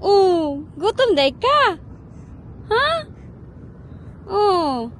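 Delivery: put-on high, loud cooing to the baby; sing-song question to the infant; mother coos to her baby, high and loud; baby talk.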